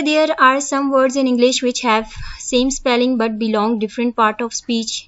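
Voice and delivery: reading the definition word by word, slowly; slow dictation. Acted. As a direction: dictate it slowly so students can copy. Reads statement slowly. (धीमे-धीमे लिखवाते हुए पढ़ना)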